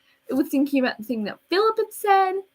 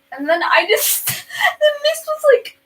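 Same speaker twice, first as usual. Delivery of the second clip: high, louder crying voice; tearful squeal; 6 dB louder, slower than usual. Retold or imitated. Girl retelling the teacher's question, high tearful squeal. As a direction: squeeze it out in a high sob.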